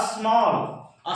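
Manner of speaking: स्मॉल said very slowly, vowel held long; drawn-out demonstration. Shown as a demonstration. Teacher shows the vowel in the word, drawn out slowly. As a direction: stretch स्मॉल right out. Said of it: "अ की मात्रा आ रहा है".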